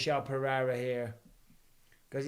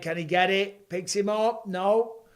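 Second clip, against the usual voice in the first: excited call; 5 semitones higher, 5 dB louder than usual. Real, not acted. Live takedown attempt.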